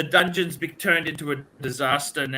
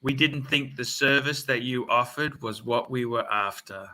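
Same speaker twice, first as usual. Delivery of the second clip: lower, measured courteous phone manner; mock polite thanks; 3 semitones lower than usual. Customer turns down Mazda salesman on the phone, mock polite.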